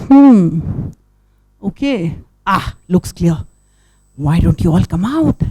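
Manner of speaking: a careful little hero peeking out, hushed; brave little turtle. Acted. Storyteller voicing Tiltil checking the beach, a lightly voiced hushed turtle. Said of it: "he says".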